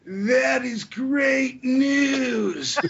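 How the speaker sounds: high, slow and bright; cheerful. A narrator's reading. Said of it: "Saria said cheerfully".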